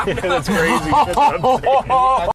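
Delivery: laughing while talking. Real, not acted. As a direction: giggle through the words. Laughing at wild storm.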